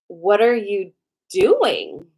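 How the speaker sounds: retold incredulous demand; indignant disbelief. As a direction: stretch the words out in mock outrage, leaning hard on the last. Catching ex reading her journal.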